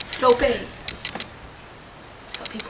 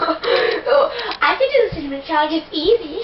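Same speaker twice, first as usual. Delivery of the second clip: mock bravado; 4 semitones higher, slower than usual. Mocking earlier bravado after failing.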